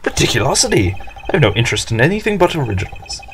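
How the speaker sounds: grandiose, self-important businessman; pompous executive. Acted. Executive boasts about his costly original, pompous. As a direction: declaim with haughty indignation.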